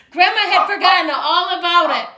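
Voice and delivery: loud high storytelling; excited narration. A narrator's reading. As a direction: tell it breathlessly.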